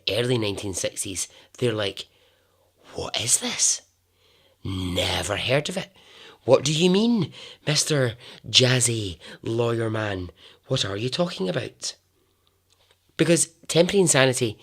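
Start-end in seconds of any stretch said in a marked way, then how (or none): 2.9-11.9 lightly acted incredulous questioning; baffled townsfolk. Odessa people question the flashy lawyer, mock bafflement. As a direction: challenge it with mild disbelief, pitch jumping about.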